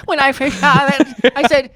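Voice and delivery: put-on creaky old-timer reminiscing; very old man. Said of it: "the old man voice time immediately".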